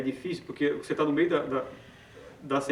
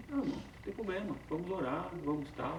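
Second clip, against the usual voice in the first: soft, lightly acted reassurance; understanding friend; 3 semitones higher, 8 dB quieter than usual. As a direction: gently voice a friend brushing off the worry, softly. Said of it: "Vai te escutar e vai dizer". (amigo compreensivo, em voz baixa)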